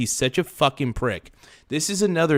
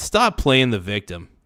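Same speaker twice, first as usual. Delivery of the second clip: plain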